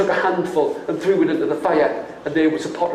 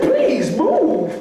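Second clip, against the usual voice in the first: mother's high plea; 11 semitones higher than usual. Acted. Mother pleads with stranger.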